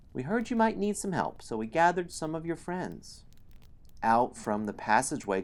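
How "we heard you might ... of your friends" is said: high little gnome voice; gnome leader. A narrator's reading. Gnome leader offers the hero help, high-pitched. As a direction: pipe it quickly in a high voice. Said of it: "the gnome leader says".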